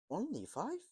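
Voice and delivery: a light laugh in a high, loud question; amused laughing question. A narrator's reading. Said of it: "laughed Deacon".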